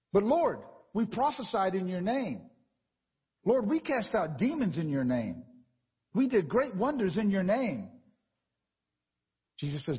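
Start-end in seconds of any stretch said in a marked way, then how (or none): 0.1-7.9 slow, pitched higher, protesting their deeds; lightly voiced people begging Lord to recognize them; pleading followers.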